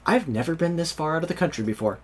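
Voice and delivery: naive cousin's remark; imitating cousin. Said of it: "and she's like".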